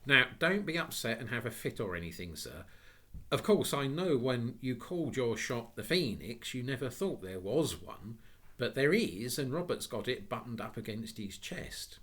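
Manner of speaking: put-on earnest child explaining to a gentleman; lightly voiced child. Child character speaking to gentleman.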